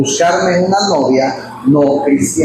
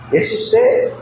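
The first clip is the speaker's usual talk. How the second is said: usted pitched sharply up in a rising question; high rising question. Shown as a demonstration. Pastor repeating the question to the congregation, asking with a high rise. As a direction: ask Es usted with a big upward lift on usted.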